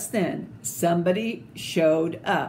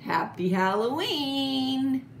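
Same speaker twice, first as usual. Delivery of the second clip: cheerful greeting; 6 semitones higher than usual. Shown as a demonstration. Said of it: "closing greeting".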